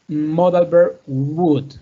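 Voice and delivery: "would" said slowly, the L left silent; slow careful would. Shown as a demonstration. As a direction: stretch out "would" with no L sound. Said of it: "Look at the pronunciation".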